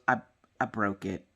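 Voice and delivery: a hint of a sheepish child husband; childlike confession. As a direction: mumble it like a guilty kid. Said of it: "acts like a tiny child".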